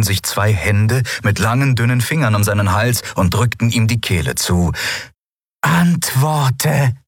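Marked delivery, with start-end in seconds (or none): 5.6-6.9 high, commanding otherworldly voice; booming voice in his head. Acted. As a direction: command like an alien creature. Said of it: "dröhnte die Stimme der Shayang in seinem Kopf".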